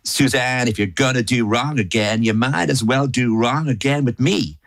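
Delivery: hint of American country twang; country and Western accent. Irish singer doing country and Western music, light American twang. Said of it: "especially with country and Western music".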